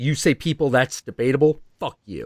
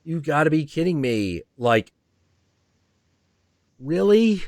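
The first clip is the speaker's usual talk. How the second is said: incredulous; 4 semitones higher than usual. Retold or imitated. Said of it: "I'm like".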